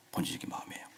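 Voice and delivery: whispered repeat. Shown as a demonstration. Preacher repeating his point in a whisper. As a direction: breathe it as an echo.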